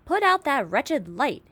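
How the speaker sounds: loud angry shout at the glowworm. A narrator's reading. Centipede yells up at the glowworm to put out light, angry shout. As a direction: bellow it to kill the light. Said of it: "he shouted".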